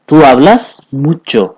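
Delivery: "तू hablas mucho" said very slowly, word by word; slow, clear teaching repeat. Shown as a demonstration. Teacher repeating the Spanish line for students, very slowly. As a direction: spell it out slowly so students catch every word. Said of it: "ठीक है".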